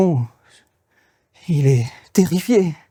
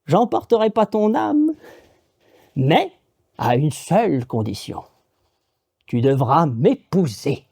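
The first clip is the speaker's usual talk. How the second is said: amused witch; 2 semitones higher than usual. Acted. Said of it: "elle est amusée du malheur du bûcheron".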